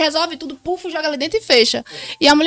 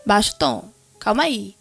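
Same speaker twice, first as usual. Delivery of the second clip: lower, restrained hushing; calming him down; 4 semitones lower, 5 dB quieter than usual. Retold or imitated. Wife tells husband to lower his tone, calming him down. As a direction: rein in someone's tone, keeping your own low.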